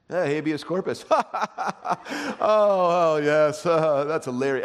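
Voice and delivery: high, loud mock laugh, in on the joke; hammed-up lawyer laughter. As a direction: fake hearty guffaw over a nerdy joke. Mocking lawyers joking in jargon.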